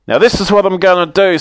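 high, gloating snowman voice; chattering melting snowman voice. Acted. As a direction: gloat over the plan. Snowman announces his plan.

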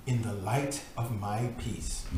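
measured, earnest reading of a devotional book; solemn devotional reading. Acted. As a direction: read it like scripture, steady and grave. Reads devotional text aloud.

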